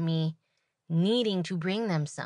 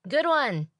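sarcastic thought; 8 semitones higher, 6 dB louder than usual. Retold or imitated. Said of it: "my first thought in my head is like".

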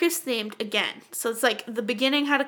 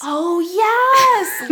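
excited yes; 7 semitones higher, 6 dB louder than usual. Real, not acted. Excited agreement.

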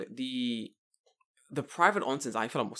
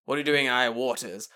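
pirate voice; 2 semitones lower, 5 dB louder than usual. Pretend. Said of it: "pirate hails a fisherman".

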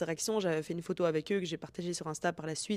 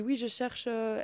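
put-on a light Hispanic accent on the quote, pitched a little higher; 4 semitones higher, slower than usual. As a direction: lightly imitate a Spanish-speaking customer's accent. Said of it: "elle avait un accent hispanique". (léger accent hispanique imité)

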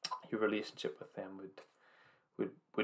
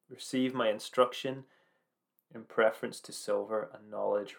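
solemn proclaiming reading; scripture reading. Acted. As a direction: proclaim wisdom's words from the pulpit.

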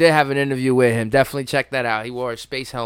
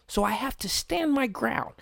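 imitating Grizzly Man; 9 dB quieter than usual. Imitating Grizzly Man's calm talk.

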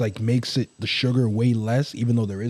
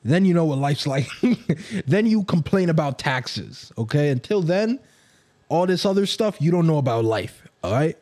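put-on old parent lecturing; 3 semitones higher than usual. Mocking older generation lecture.

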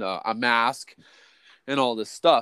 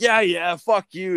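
high sneering brush-off; mock dismissive boss; 8 semitones higher, 4 dB louder, slower than usual. Boss shrugging off the worker's threat, high sneer.

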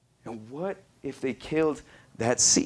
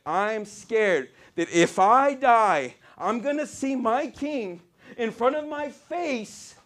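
fervent preaching; 9 semitones higher, 5 dB louder than usual. Acted. Preaches in an imagined voice.

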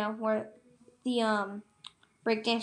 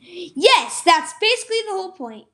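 higher, quick know-it-all reply; matter-of-fact; 7 semitones higher, 7 dB louder than usual. Retold or imitated. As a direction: tell him it's obvious. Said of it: "And they're saying".

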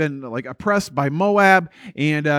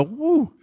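relieved woo; 9 semitones higher than usual. Acted. Acts out relief after deliverance.

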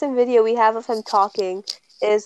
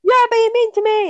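Niall impression; 11 semitones higher, 4 dB louder than usual. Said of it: "that's all I get".

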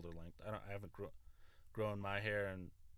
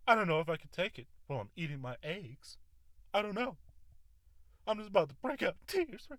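much higher, louder hammed-up whine; mock tearful complaint; 8 semitones higher, 6 dB louder, faster than usual. Hammed-up tearful whine at Winston over breakfast. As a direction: whine as if about to cry.

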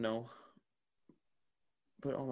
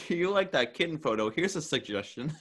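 higher-pitched mock-helpful app; perky recommendation voice; 6 semitones higher, 4 dB louder than usual. Twitter suggesting content to a user, mock perky. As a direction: offer it brightly, pitched up.

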